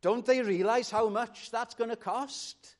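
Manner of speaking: angry homeowner. Acted. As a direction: complain in outrage about the damage. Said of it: "I'd be pretty angry".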